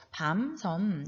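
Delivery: 밤, 섬 each closed on a hummed m; final ㅁ demonstration. Shown as a demonstration. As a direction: model 밤 and 섬 with lips shut at the end. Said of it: "이렇게 발음하면 되겠어요".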